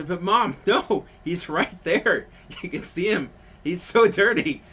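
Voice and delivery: high, loud mimicry of an insistent kid; little girl yelling. Little girl arguing with her mom, yelling. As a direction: protest at full volume like a child. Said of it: "the little girl would yell".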